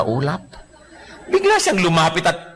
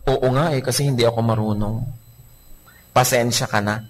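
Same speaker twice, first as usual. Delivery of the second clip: gentle reply; 5 semitones lower than usual. Acted. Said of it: "ang gentle-gentle na nga na yun sagot".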